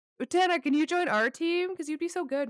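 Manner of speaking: put-on, high-pitched girl's voice. Speaker recounts boys asking a player to join their team, put-on girl's voice. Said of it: "I'm doing a girl's voice for these boys".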